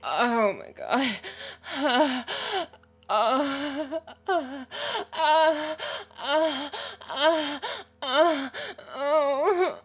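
loud, high, rising moans; crying out at climax. Real, not acted. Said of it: "I'm coming".

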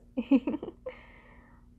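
breathy high giggle. Acted. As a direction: giggle teasingly. Teasing the partner.

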